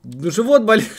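loud high whiny mimicry; mock her excuse, loud and high; mocking whiny mother. Repeats the mocking imitation.

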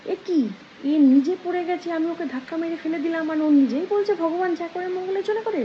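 loud start, indignant disbelief; angry king. Acted. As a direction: act out an exasperated king's outburst. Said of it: "রাজা শুনে ক্ষেপে গেছে".

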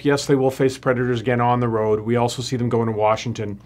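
usual speaking voice

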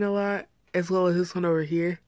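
speaking with finger on lip; finger pulling lip down. Real, not acted. Seen 1: finger presses lower lip down showing braces while speaking.

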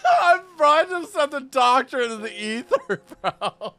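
laughing. Real, not acted. Laughing at game mishap.

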